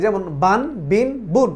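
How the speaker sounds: বান, বিন, বুন each ending on a held n; tanwin examples. Shown as a demonstration. Teacher listing the three tanwin sounds for students. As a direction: chant বান বিন বুন clearly, one by one. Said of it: "নুনের উচ্চারণ ভাব থাকবে".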